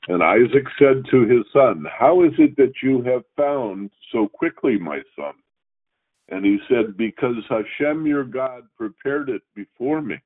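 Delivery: measured, formal reading of the Torah text; scripture reading. Acted. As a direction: read each verse out steadily like in synagogue.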